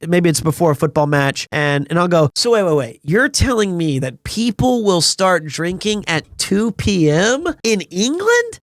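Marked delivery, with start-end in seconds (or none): 2.4-8.6 incredulous repeating. Retold or imitated. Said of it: "I repeat what they just said".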